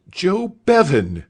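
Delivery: delighted recognition, cry the name out; a master's excited cry; cried out. A narrator's reading. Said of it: "cried Mister Spence".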